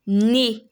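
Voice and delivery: "né" with E Z said as ay; French é sound. Shown as a demonstration. Teacher gives the last example, careful French pronunciation. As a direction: say "né" ending in é, no Z. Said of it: "The E Z has an A sound".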